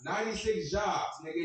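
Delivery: excited reveal. Real, not acted.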